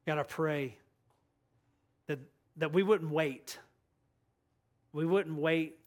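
measured, earnest prayer with long pauses. Real, not acted. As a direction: pray aloud phrase by phrase for the congregation. Leads the congregation in prayer.

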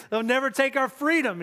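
mock battle yell. Pastor finishes Wallace's famous line for the congregation, half-yelled. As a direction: imitate a battle cry without a full shout. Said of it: "And he yells it out".

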